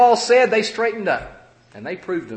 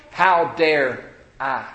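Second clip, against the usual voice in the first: slow, drawn-out self-reproach; indignation at oneself; 3 semitones lower, much slower than usual. Acted. Repentant believer closing his self-rebuke, slow indignation. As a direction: draw out each word of the self-rebuke. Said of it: "Indignation is".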